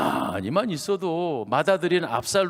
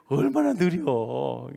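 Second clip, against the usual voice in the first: slow; slower than usual. Retold or imitated. Mimics the slowness he describes.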